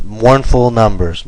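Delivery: "mournful numbers" with "mourn" and "num" stressed; trochaic stress. Shown as a demonstration. Teacher giving a trochee example, first syllables stressed. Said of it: "Stressed or long".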